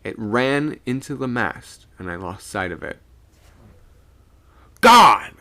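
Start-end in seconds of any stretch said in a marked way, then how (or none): 4.8-5.3 loud high cry of shock; shocked exclamation. A narrator's reading. Skipper fumbling for his pistol, exclaiming in shock. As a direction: burst out with it, pitched up. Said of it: "I heard the skipper gasp".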